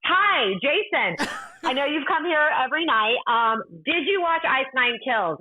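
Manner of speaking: lightly mock sweet hello to a star; sweet fan voice. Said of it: "I'm like".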